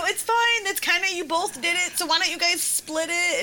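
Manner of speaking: high, coaxing mom voice; retold soothing. Mom re-enacts offering crying son a compromise, coaxing. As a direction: placate a child in a lifted, lilting voice.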